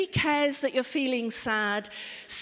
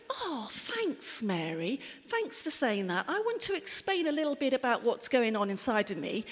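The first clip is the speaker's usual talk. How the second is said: soft, sincere thank-you; mild, soft gratitude; grateful, sincere thanks; 5 dB quieter than usual. Shown as a demonstration. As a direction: say it gently, truly thankful. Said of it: "Or if you kind of think".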